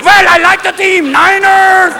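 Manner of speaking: very high, overexcited academic fan; Professor Hibble. Acted. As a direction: pitch way up as a professor turned fanatic. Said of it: "Professor Hibble".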